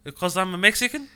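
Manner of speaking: put-on a half-joking Mexican accent on an offended coworker; retelling a Hispanic coworker's complaint in a put-on Mexican accent; mock Mexican accent. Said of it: "There was an accent".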